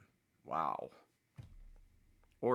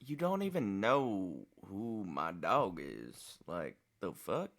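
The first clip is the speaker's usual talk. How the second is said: mocking uncle voice; 4 dB louder, slower than usual. Mocking the uncle's phone call.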